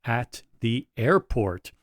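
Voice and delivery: slow, suspenseful read-out; drawn-out reveal of the topic; building tension. Real, not acted. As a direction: read it out slowly with pauses for suspense. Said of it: "we got the tension".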